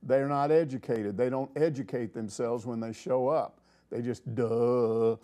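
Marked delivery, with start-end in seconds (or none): 3.9-5.2 slow, dopey "duh"; mock clueless. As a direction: play the clueless reporter, dragging it. Mocking clueless media people.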